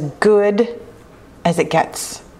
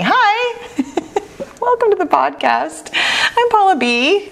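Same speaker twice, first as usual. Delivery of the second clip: exaggerated cartoon intonation; 12 semitones higher, slower than usual. Bubbly show greeting.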